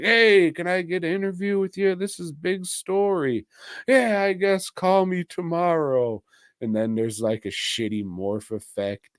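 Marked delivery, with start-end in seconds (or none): 0.0-6.2 higher, quick eager reporter; lightly voiced reporter. The friend at the newspaper asking for an interview, higher eager voice. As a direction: chirp it like a pushy newsman. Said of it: "His friend at the newspaper's just like".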